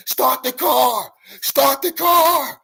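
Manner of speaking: high, drawn-out panicked yell; imitated screaming. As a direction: scream it as if running for your life. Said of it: "came running out the woods screaming".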